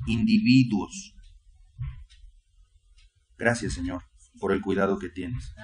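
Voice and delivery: fervent pleading prayer to the Lord; heartfelt congregational prayer; earnest prayer. Acted. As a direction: pray it earnestly, pausing on each Señor. Preacher leads opening prayer.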